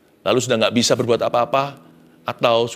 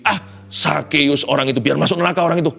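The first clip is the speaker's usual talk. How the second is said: hateful; 2 semitones higher than usual. Retold or imitated. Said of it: "atau yang membenci".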